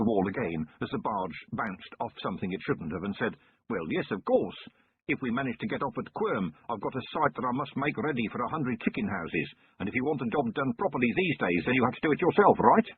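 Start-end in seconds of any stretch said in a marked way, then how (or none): 3.7-12.9 nervous chicken farmer. Acted. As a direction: explain yourself, anxious and wordy. False explains his job.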